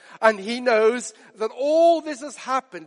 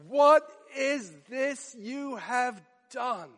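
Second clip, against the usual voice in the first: slow, shocked demand; horrified question; 2 semitones higher, 4 dB quieter, slower than usual. Retold or imitated. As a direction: ask it aghast, slowly. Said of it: "hear the shock and horror and dismay".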